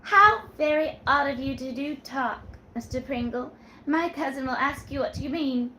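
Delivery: put-on coy young woman.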